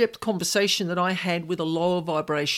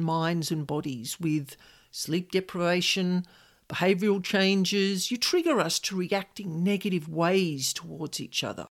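calm; 2 semitones lower than usual. Retold or imitated. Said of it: "very calmly".

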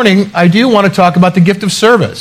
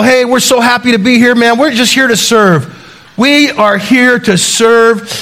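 mimicking Len; 4 semitones higher than usual. Len arrives, repeats catchphrase.

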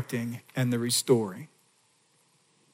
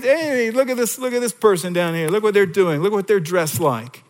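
mocking; 5 semitones higher than usual. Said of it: "instead of mocking our problems and shaming us".

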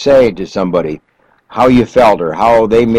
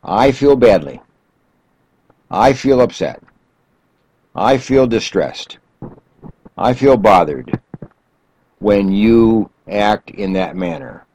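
calm I statement; slower than usual. Shown as a demonstration. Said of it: "An I statement is just simply this".

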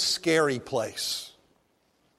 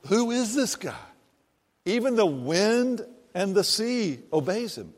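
amazed disciple; 5 semitones higher, 4 dB quieter than usual. Retold or imitated. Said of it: "the disciple goes".

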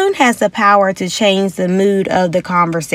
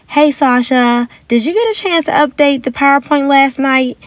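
higher friendly check-in with a coworker; nice tone; 5 semitones higher than usual. Shown as a demonstration. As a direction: ask kindly, no blame. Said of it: "say in a nice tone".

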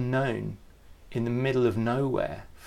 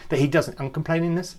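questioning own word; 5 semitones higher, 4 dB louder, faster than usual. Real, not acted. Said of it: "is that a word?".

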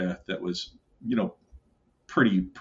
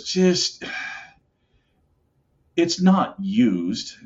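coaxing uncle; 2 semitones higher, much slower than usual. Retold or imitated. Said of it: "he goes".

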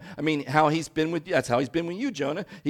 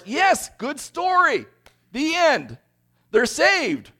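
smug happy ending; 11 semitones higher, 6 dB louder, much slower than usual. Retold or imitated. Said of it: "and so it's like".

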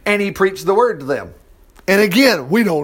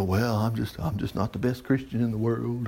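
mock self-pity; 7 semitones lower, 10 dB quieter than usual. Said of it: "You'll go".

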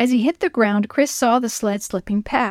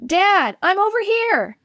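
high, relieved call to dad; 10 semitones higher than usual. Acted. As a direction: call across the snow to his father. Boy calls to his father.

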